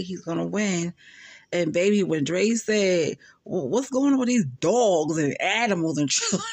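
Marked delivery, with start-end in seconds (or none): 3.4-6.4 lightly voiced incredulous friend; half-hearted Dre impression with a laugh; mimicking Dre. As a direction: quote him with a hint of his disbelief. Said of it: "the way he was saying it".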